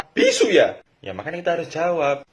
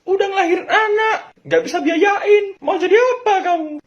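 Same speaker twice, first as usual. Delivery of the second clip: put-on yelling child; 8 dB louder than usual. Child yelling at broke parents.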